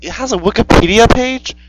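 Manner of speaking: high, loud astonished question; incredulous. Real, not acted. Co-host learns of the Wikipedia page, loud incredulous question. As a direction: pitch jumps up in disbelief.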